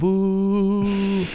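long high mock boo; booing crowd. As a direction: imitate a whole crowd booing. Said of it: "everybody's like, "Boo".

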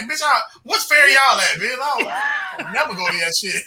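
half-laughing mock shout; mock yell. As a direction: yell it like you're fed up with them. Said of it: "I'm like".

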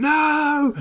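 one high, loud, drawn-out refusal; mock screaming. Told to calm down at the desk, mock hysterical scream. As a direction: yell it in hammed-up hysterics. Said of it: "starts going mad".

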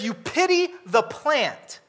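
a hint of God mocking the pity; voicing God. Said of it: "God says".

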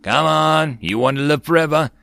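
high, loud battle cry; rally the others forward; rallying shout. A narrator's reading. Rallying others while running forward.

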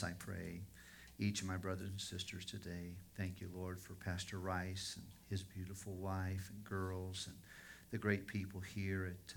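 subdued, unhurried pastoral prayer; sincere prayer. Real, not acted. Pastor praying for his fellow ministers, subdued and sincere. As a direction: pray quietly and earnestly, with pauses.

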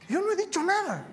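a high, amused "yo no he dicho nada"; incredulous aside. Real, not acted. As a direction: toss it off in disbelief. Ironic aside after quote.

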